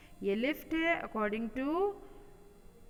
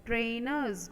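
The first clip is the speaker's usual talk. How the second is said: slow teaching read; much slower than usual. Shown as a demonstration. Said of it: "in British English it".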